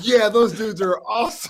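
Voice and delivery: shrill, very high, loud laugh through words. Retelling a recruit's reply at dinner: imitating someone laughing. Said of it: "he started laughing like".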